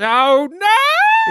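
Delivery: surprised. Acted. The sour candy hits.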